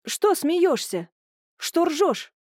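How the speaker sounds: high, slow, furious demand; furious shriek. Acted. Julia furious at laughing brother, high slow shriek.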